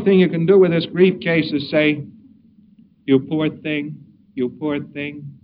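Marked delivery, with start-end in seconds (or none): 3.1-5.3 soft, pitying coo, trailing off quieter. Shown as a demonstration. Lecturer demos soothing a grief case, soft pity. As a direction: comfort a sobbing client gently. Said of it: "you say it in a lot of ways".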